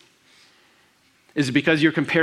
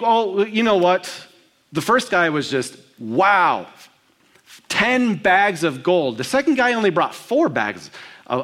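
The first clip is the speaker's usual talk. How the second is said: mock excitement; 5 semitones higher, slower than usual. Mock reaction of listeners.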